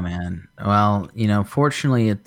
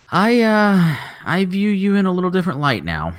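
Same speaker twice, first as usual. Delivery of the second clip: laughing; 11 semitones higher than usual. Retold or imitated. Telling coworker off, laughing.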